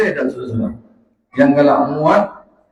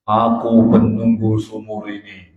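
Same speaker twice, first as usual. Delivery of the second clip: lightly voiced jinn, lower; 5 semitones lower than usual. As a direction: answer like the guardian spirit of the well. Jinn answers from the well.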